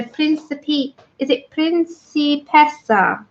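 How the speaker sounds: slow, light mock Italian Principessa; Italian accent. To the chat, trying the Italian name in a light Italian accent. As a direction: roll out Principessa in a playful hint of Italian. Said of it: "you need to set an Italian accent".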